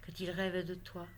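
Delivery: measured poetry reading with pauses between phrases; poem recitation. Acted. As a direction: recite a love poem line by line. Reads her love poem aloud.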